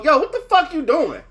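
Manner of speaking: a lightly voiced cop snapping at him; imitating the cop.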